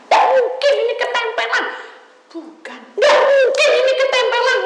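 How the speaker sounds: high, loud indignant protest; mock denial. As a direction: act the caller refusing it. Memerankan jemaat menyangkal. (menyangkal dengan suara tinggi)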